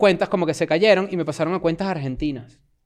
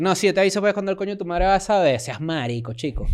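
put-on Venezuelan accent; 3 semitones higher than usual. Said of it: "Y los venezolanos dicen".

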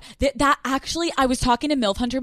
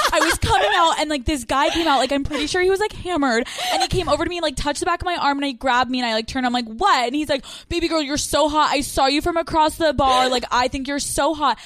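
imitating a ditzy girl; 2 semitones higher than usual. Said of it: "She's like".

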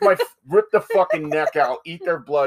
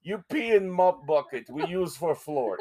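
put-on Russian accent; 4 semitones higher, 3 dB quieter than usual. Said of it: "we only can do Russian accent".

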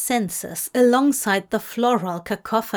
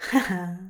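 warm chuckle; 3 semitones lower than usual. Acted. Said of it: "Nox chuckled warmly".

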